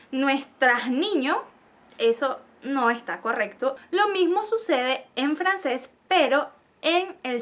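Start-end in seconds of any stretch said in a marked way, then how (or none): 0.1-1.4 slow wrong example. Shown as a demonstration. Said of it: "si una persona dice".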